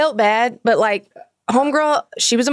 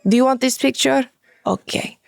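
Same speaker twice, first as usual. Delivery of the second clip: put-on 1 Russian accent scolding. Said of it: "in character, like, in the Russian".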